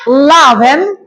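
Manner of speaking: ইলেভেন as "la-ven", starting on L; initial vowel dropped. Shown as a demonstration. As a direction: leave off the opening i of ইলেভেন. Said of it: "আমরা ইর উচ্চারণ বাদ".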